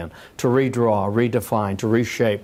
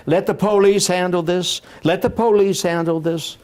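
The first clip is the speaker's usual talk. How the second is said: put-on higher-pitched Alabama accent; George Wallace; 7 semitones higher than usual. Politician tells a heckling crowd who'll handle it, Alabama accent. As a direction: imitate an Alabama politician calling out from the podium. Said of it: "in that Alabama accent".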